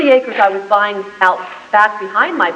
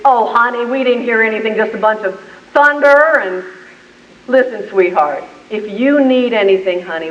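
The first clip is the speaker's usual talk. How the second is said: reassuring. Retold or imitated. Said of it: "neighbor reassuring on phone".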